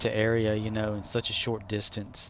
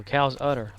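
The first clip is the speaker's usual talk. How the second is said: lightly played straight man naming the thing; understated comedy-duo statement, falling at the end; Abbott and Costello; 4 dB louder than usual. Comic feeding a line to his partner, lightly played double act. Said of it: "Like Abbott and Costello".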